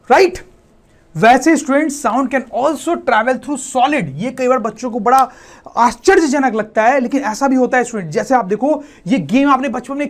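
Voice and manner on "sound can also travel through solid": each word drawn out slowly for copying; slow classroom dictation=2. Shown as a demonstration. Teacher dictating a rule.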